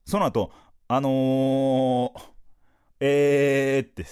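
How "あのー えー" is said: drawn-out, lost for words; imitating a nervous blank on stage; stalling. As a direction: stretch the fillers like you forgot the line. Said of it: "セリフがあんまり出てこない".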